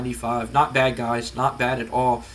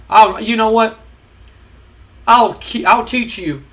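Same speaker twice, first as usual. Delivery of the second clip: higher, louder shouted threat; mock furious threat; 6 semitones higher, 5 dB louder than usual. Vince threatening The Rock, shouting. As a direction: yell it like an enraged boss.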